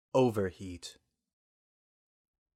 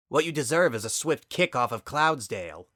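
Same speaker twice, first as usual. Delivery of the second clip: angry; 4 semitones higher, 4 dB louder than usual. Acted. Angry sister confronts Sunset.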